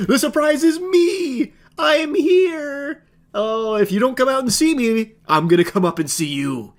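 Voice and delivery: high, tearful hammed-up squeal; mocking a creepy texter with a high, wobbly squeal; mock stalker voice. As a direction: ham it up as the giddy creep.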